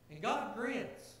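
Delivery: slow savoring. Real, not acted. Preacher savors the point.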